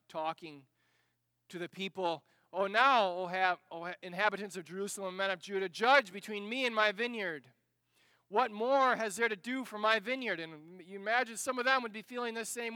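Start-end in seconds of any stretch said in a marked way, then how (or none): 2.5-10.4 Isaiah calling out. Acted. Isaiah voiced addressing the people.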